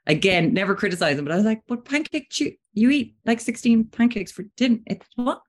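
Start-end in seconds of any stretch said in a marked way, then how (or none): 1.7-5.4 indignant protest. Retold or imitated. Retold protest about pancakes.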